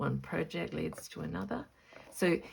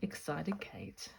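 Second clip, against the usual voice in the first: soft, hushed whisper. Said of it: "Calm down".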